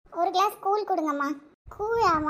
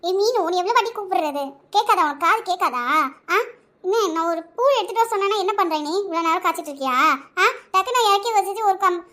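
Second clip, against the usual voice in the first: angry scolding. Acted. Aunt scolding girl harshly.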